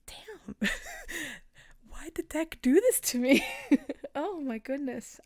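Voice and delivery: high, loud laugh-cry breaking through; overwhelmed, laughing and crying at once. Real, not acted. Reader blaming the deck, laughing through tears. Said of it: "emotional bit".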